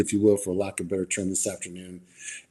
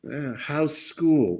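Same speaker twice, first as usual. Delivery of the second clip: routine question; 7 semitones higher, much slower than usual. Retold or imitated. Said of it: "it's not natural".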